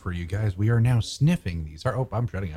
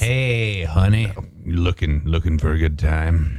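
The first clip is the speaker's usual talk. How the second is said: sultry come-on; 4 semitones lower, 4 dB louder, slower than usual. Pretend. Voicing a seductive neighbor.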